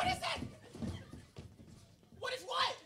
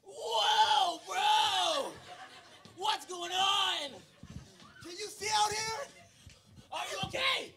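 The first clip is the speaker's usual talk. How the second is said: louder shouts over the howling sand; shouting through a storm; 5 dB louder, slower than usual. Acted. Lost friend calling out across the beach, shouting. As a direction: yell to find your friend in the sandstorm.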